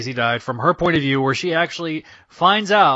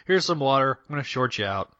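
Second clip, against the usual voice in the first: cocky villain voice; 4 semitones higher than usual. Retold or imitated. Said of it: "she's like".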